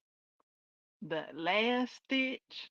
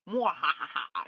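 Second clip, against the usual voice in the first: villain laugh; 7 dB louder than usual. Pretend. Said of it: "of a villain laugh".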